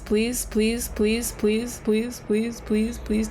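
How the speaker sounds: insistent, evenly repeated begging; repetitive pleading. Real, not acted. Player begging to learn the mistake, repetitive pleading. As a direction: chant the pleas in an even string.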